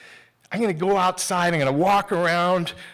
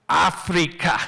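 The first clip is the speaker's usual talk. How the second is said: low, very slow, solemn pronouncement; low drawn-out prophecy; prophet voice; 6 semitones lower, much slower than usual. Retold or imitated. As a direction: intone it like a prophet of doom. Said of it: "Every story needs a prophet".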